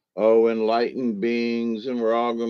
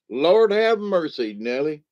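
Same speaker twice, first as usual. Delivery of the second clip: shocked exclamation; 5 semitones higher than usual. Real, not acted. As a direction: drag it out in disbelief.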